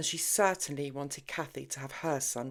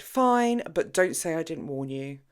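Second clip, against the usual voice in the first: resigned sigh; 6 dB louder than usual. Acted. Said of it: "Kathy sighed".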